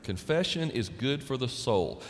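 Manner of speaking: usual speaking voice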